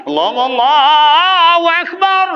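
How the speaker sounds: slow, high, loud Allahu Akbar call; called takbir. Acted. Preacher rousing the crowd, high loud takbir call. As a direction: ring it out like a call to prayer.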